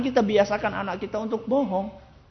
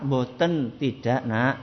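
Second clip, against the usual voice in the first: firm no; 4 semitones lower, 5 dB louder, slower than usual. Shown as a demonstration. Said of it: "Nggak usah bentak-bentak".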